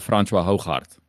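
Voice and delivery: "Francois Hooghart" said the Afrikaans way; Afrikaans name pronunciation. Shown as a demonstration. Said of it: "ever be able to pronounce that".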